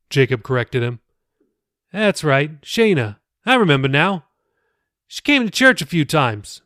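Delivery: easygoing pastor chatting; pastor Billy, friendly. Acted. The pastor recalls a girl from church, lightly voiced.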